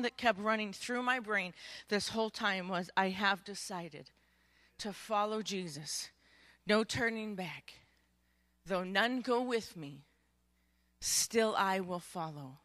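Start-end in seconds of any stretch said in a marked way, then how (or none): 3.0-12.6 hymn lyric. Real, not acted. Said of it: "I won't sing it for you".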